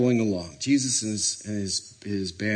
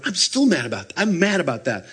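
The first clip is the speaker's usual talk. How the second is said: mock indignation, pitch raised; mad; 5 semitones higher than usual. Husband telling wife about an old grudge, mock mad. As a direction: act out a belated, mild outburst. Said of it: "he'd come back to his wife".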